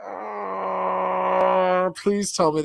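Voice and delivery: high, loud gasp of disbelief; shocked disbelief. Real, not acted. Host learning the guest wants Texas to secede, shocked disbelief.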